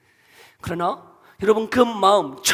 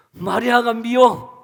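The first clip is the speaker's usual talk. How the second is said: resentful Martha; 3 semitones higher, 5 dB louder, slower than usual. Pretend.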